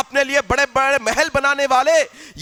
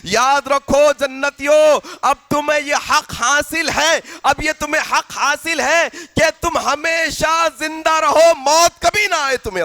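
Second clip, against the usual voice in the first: heavenly announcer. Acted. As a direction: proclaim it to the crowds of paradise. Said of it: "اعلان کرنے والا جنتیوں کے سامنے اعلان کرے گا".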